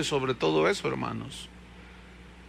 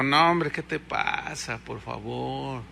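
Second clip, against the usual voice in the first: casual Eliseo; 6 semitones lower, 7 dB quieter, slower than usual. Retold or imitated. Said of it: "y Eliseo dijo".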